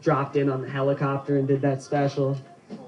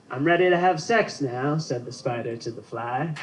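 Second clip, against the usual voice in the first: half-hearted, hushed Freeman narrating; Morgan Freeman impression. Freeman inviting women over, a hint of his narration. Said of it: "the last one I'll do ... Morgan Freeman".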